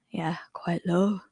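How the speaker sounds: slow whispered aside. Shown as a demonstration. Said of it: "male's pitch".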